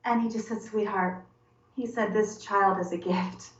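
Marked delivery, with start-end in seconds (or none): 0.6-1.2 soft, gentle endearment; tender. Retold or imitated. Husband reassuring pregnant wife, tender. 2.1-3.5 slow, gentle reassurance; tender. Retold or imitated. Husband accepting the unexpected child, tender.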